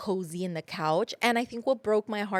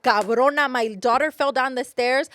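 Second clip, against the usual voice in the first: louder, mock-furious tirade; mock furious mom; 3 dB louder than usual. A mother threatening the sleeping nanny, mock fury. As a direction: chew out the nanny, half joking.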